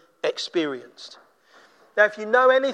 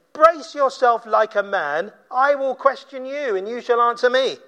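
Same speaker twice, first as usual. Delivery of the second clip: God's commanding challenge. Acted. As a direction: start measured, then lift into a challenge. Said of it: "Then he says to him".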